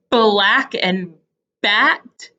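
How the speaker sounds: BLACK and BAT slowed, leaning on each b; careful, spaced black and bat; emphasized B. Shown as a demonstration. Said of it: "my lips looked the same".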